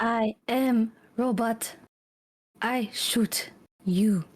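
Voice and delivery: even machine gun syllables; clipped robot monotone. Pretend. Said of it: "do your best seventy impression".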